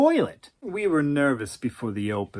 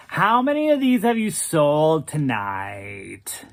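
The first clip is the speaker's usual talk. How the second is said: airy drawl; slower than usual. Acted. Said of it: "in that airy drawl of his".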